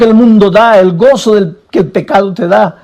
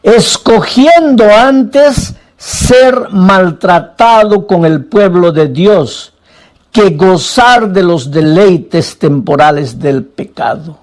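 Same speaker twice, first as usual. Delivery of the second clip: slow scripture reading; 3 semitones lower, slower than usual. Acted. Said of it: "escucha lo que dice el siguiente versículo".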